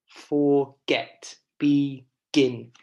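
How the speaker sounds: "forget" and "begin" split, weight on GET and GIN; stressed last syllable. Shown as a demonstration. Teacher demonstrates stressed endings, stress on last syllable. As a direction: land firmly on the end of "forget" and "begin". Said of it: "some are stressed".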